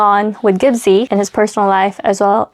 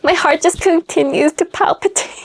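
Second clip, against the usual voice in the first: usual speaking voice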